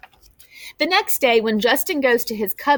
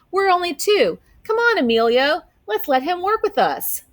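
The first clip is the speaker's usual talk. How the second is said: high, coaxing plea; eager pleading; 10 semitones higher than usual. Acted. Justin coaxing Emilio to let Brian join, eager and high. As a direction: talk a friend into saying yes.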